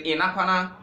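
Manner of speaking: "Inakwana" said high and loud, nasal first vowel; confident Hausa greeting. Shown as a demonstration. To the listener who doubted him, a loud confident greeting. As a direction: ring out "Inakwana" with full confidence.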